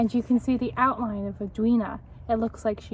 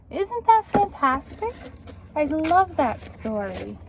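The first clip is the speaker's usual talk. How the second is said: delighted; 4 semitones higher than usual. Real, not acted. Teacher praising story.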